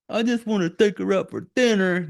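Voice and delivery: sarcastic mimicry of a loser; mocking Rick again. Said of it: "You fucking loser".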